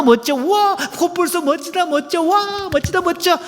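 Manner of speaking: high, breathless over-the-top raving; hammed-up adoring wife; gushing praise. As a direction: fuss over him like a fan. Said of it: "호들갑 떨어줄 때".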